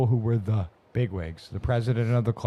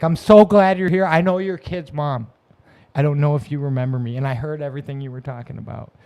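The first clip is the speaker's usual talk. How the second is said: kind lady; 3 semitones higher, 4 dB louder than usual. Retold or imitated. Kind lady's voice.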